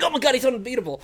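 high awestruck gasp; mock wide-eyed amazement; gullible. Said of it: "you would be such a bad detective".

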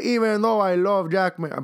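loud, high, put-on Latino accent; terrible Spanish accent. Host reading a Puerto Rican listener's tweet, terrible Spanish accent. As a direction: ham up a bad Spanish accent. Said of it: "so I can do a terrible Spanish accent".

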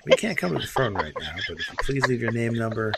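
soft, polite voicemail greeting; customer service voice. Retold or imitated. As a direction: read it like a friendly answering machine. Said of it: "my best customer service voice".

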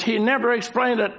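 quick, insistent stress on "never"; emphasis on never. Real, not acted. Preacher repeating his point, brisk emphasis on "never". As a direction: drive "never" home briskly. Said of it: "making a very special, uh, emphasis".

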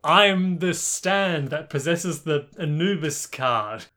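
slow, lightly acted spirit announcement; voice in the head. Sword's voice speaking to Chaka, lightly acted spirit. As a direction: proclaim it slowly like a mock spirit. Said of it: "the voice is like".

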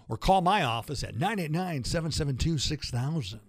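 lightly put-on announcer voice; fading fake sportscaster read; Howard Cosell voice. Shown as a demonstration. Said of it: "Hear that fake voice?".

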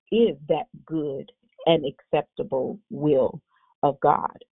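slow, measured reading of scripture. Acted. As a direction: read each phrase slowly and deliberately. Scripture read slowly.

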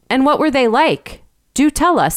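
put-on high, eager boyish questioning. A narrator's reading. Two schoolboys pressing the shepherd for his tale, eager. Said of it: "said Algernon and Wilfred eagerly".

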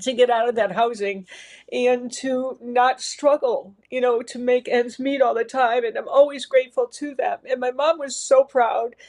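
holding back tears as she speaks; emotional. Real, not acted. Thanking her parents, choked up and emotional. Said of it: "I'm sorry for getting emotional about it".

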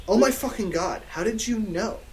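astonished but lightly played; gasped. Satan amazed she knows his band, gasped. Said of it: "Satan gasped".

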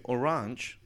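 orange said the French way, second syllable open and nasal; French pronunciation. Shown as a demonstration. Asking about the word's origin, French pronunciation. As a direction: stress the end of orange as in French. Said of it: "does it mean orange in English".

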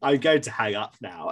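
polite, deadpan mock caller; bland voice. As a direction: say the threat like ordering a pizza. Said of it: "being like".

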